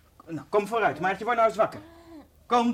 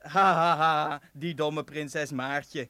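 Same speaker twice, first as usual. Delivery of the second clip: slow, gloating mock-prince voice; a sneering prince laughing at his dupe; mocking fake prince. Kaspar playing the wicked prince for Maartje, slow and gloating. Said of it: "die stem van doen".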